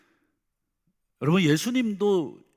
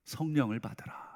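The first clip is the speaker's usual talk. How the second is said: softer, 성령을 받으라 spoken on the outgoing breath; breathed blessing; 6 dB quieter than usual. Shown as a demonstration. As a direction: breathe the words out gently. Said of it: "하고 숨을 내쉬면서". (숨을 내쉬며 부드럽게 "성령을 받으라")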